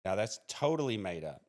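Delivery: mock dismissal, dropping away at the end; sarcastic denial, leaning on "totally". Real, not acted. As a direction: dryly pretend to write it off as made up. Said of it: "I'm, I'm being sarcastic".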